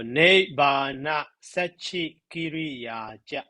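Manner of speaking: slow, deliberate reading of the Pali line; reciting the verse line slowly for students; slow recitation. Shown as a demonstration. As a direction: draw out nibbana sachi kiriya ja. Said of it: "Also three syllable".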